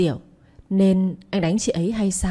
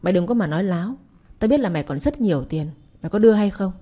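mildly raised angry accusation; a touch of rising fury, pushing harder by the last question; husband lightly voiced, angrily pressing for money; faster than usual. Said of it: "tức giận lớn tiếng".

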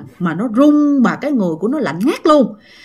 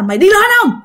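higher, threatening demand from a lightly voiced scary man; a hint of a monster's threat, repeated and pressing; menacing threat; 5 semitones higher than usual. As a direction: retell the ghost man warning the boy off, pitched up. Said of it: "ổng mới chỉ con rằng á là".

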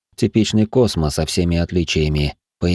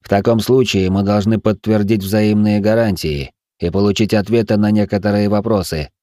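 firm; 2 semitones higher than usual. Acted. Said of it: "жёстко сказал я".

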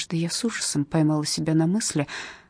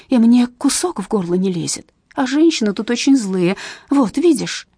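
imprisoned mother pleading, growing louder toward the end; 4 dB louder than usual. Acted. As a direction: beg her daughter to believe you, voice climbing. Mother pleading with daughter in prison.

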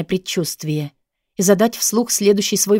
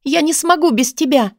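desperate plea; 8 semitones higher than usual. A narrator's reading. Heroine pleads desperately.

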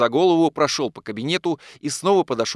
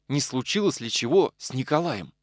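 plain reading voice

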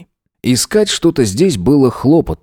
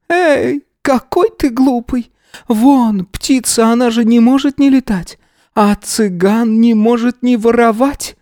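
put-on old gypsy woman; 14 semitones higher than usual. A narrator's reading. Yana scolds him, old woman voice.

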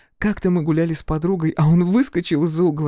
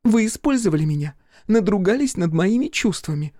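raised-pitch, hurt reproach; wounded accusation; 3 semitones higher than usual. Acted. Fiona accuses Crow of using her feelings, wounded. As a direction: accuse him as the injured party.

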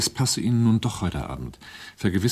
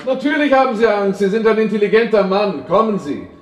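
lightly voiced, higher, coaxing menace; a hint of a menacing host; 8 semitones higher than usual. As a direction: lure him down with false kindness. Villain coaxing frightened Bucky downstairs.

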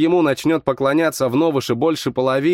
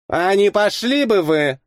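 irritated snap; 5 semitones higher than usual. A narrator's reading. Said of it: "куда менее игривым тоном".

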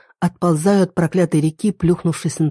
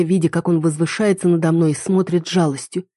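ordinary delivery, nothing marked

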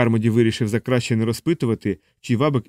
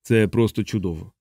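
sharp sarcasm. A narrator's reading. Carmody mocks Mozli's lecture, sharp sarcasm. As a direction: say it as a sour mock compliment. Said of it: "з гострим сарказмом сказав Кармоді".

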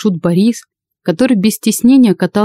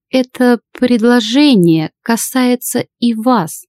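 high, slow, even; stern old lady; 5 semitones higher, slower than usual. Acted. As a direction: state it calmly. Old lady addresses Lada.

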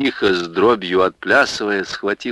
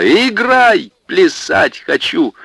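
higher and louder, impatient; excited demand; 10 semitones higher, 4 dB louder, slower than usual. Acted. Варвара demanding a dance tune, excited. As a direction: demand the music, burst with energy. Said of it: "взвилась Варвара".

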